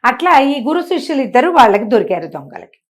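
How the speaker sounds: ordinary delivery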